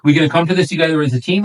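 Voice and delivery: rally the client as a team; upbeat sales pitch. Shown as a demonstration. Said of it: "you go over that".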